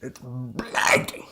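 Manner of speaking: very slow, crackling villain growl; crackly Bane voice. Shown as a demonstration. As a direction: crackle through the word blinding. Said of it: "You gotta get that crackle".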